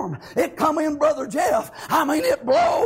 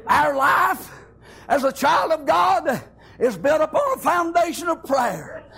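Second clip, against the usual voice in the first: higher, shouting, voice cracking near the peak; preaching at full force; 3 semitones higher than usual. Acted. Preacher telling the church how God carried him, in full-force preaching. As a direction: climb to a tearful shout of praise.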